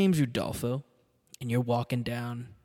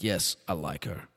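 put-on lower, slower, heavier Austrian accent; thicker Austrian accent; 6 semitones lower, slower than usual. The speaker repeating his liking for her, in a heavier Austrian accent. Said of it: "The accent got worse".

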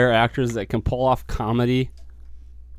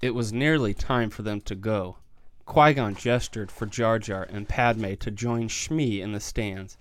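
sultry reading voice; 6 dB quieter than usual. Acted. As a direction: read it like late-night romance audio. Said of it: "I thought I walked into a porno reading".

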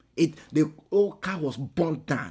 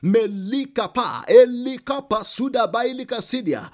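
speaking in tongues; 7 semitones higher, 9 dB louder than usual. Acted. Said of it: "If you can speak in tongues".

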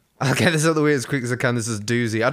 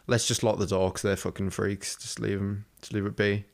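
hushed aside to husband; 5 semitones lower, 5 dB quieter than usual. Retold or imitated. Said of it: "talking to my husband ... being like".

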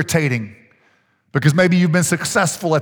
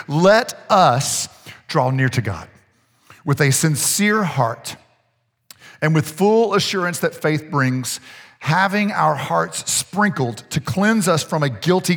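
slow, measured Bible reading; scripture reading; slower than usual. Real, not acted. Preacher reading Hebrews to the congregation, slow scripture reading. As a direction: read the verse out slowly and deliberately.

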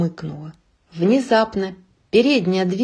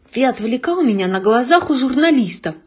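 raised irritated reproach; 4 semitones higher, 4 dB louder than usual. Acted. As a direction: scold him, annoyed. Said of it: "раздражённо сказал он".

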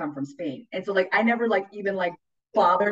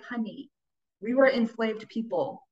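gentle dad; 4 semitones higher, slower than usual. Retold or imitated. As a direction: break it to her gently. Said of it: "He's like".

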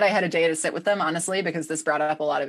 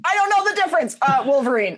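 flustered laughing; 9 semitones higher, 5 dB louder than usual. Real, not acted. Flustered quiz answer.

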